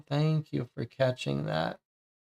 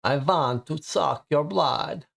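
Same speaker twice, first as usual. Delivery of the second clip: vampire voice; 2 semitones higher, slower than usual. Acted. Larper vampire greets.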